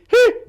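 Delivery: sharp high yelp of pain. Retold or imitated. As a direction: yelp like the broken leg is lifted. Leg lifted at fracture, yelps.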